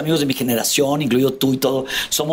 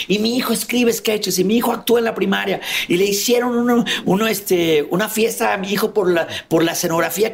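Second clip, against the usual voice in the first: proud dad imitation; 4 semitones higher than usual. Father boasting about son.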